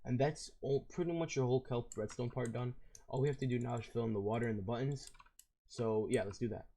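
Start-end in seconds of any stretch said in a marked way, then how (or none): 3.1-6.7 hoarse, worn voice; raspy voice. Real, not acted. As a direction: talk through a losing, raspy voice. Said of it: "if my voice sounds kinda raspy".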